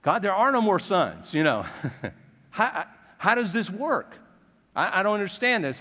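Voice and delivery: a bewildered plea, throw up your hands; half-laughing, puzzled complaint to God; exasperated prophet. Retold or imitated.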